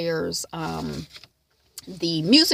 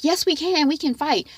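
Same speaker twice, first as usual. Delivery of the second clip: defiant Gigi; 9 semitones higher, 4 dB louder than usual. Retold or imitated. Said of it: "And Gigi is like".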